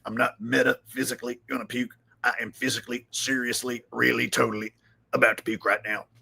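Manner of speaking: a lightly voiced sick, self-pitying host; new Alex Jones again. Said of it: "This is how Alex Jones acts now".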